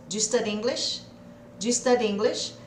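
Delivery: "Do you study English?" run together as "Dji study English"; connected speech. Shown as a demonstration. Teacher modelling natural speech for students, fluid. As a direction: blend do you into one quick sound. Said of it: "vão abrindo a boca e falando".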